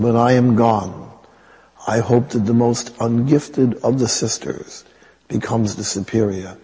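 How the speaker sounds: lightly imitated accent, earnest instruction; Mother Teresa. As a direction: teach it earnestly in the nun's accent. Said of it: "I have to use the accent".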